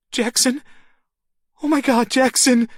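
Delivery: high, loud desperate cry; frantic mother calling her boy. A narrator's reading. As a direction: cry out the child's name. Woman calls child's name.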